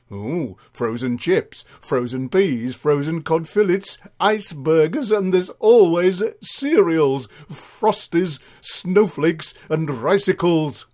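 dinner lady reciting menu. Acted.

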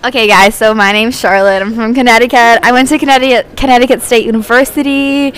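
a light put-on American accent, barely shifted; introducing herself in a mild mock American accent. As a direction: play the fake American girl from Connecticut, lightly. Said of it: "do the accent for us".

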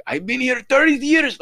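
loud, high, confident broken English; imitated broken-English accent, full of confidence. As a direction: proclaim it proudly in broken English. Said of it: "speak with the confidence of".

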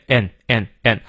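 "and" said lightly as a reduced "n"; weak AND. Shown as a demonstration. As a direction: shrink "and" to a quick, light "n". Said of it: "念得很轻". ("and"弱读，念得很轻)

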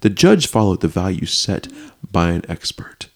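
melodramatic news narration; theatrical article read-out; dramatic reading. Acted. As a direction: lean on key words, pausing between phrases. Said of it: "I wanna get dramatic with it".

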